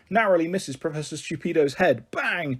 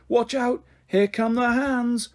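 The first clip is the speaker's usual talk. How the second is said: alarmed warning; 8 semitones higher, slower than usual. Acted. Warning of slapping hands.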